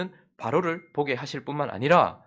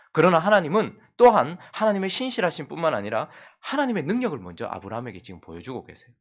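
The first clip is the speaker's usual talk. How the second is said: ordinary talk, nothing marked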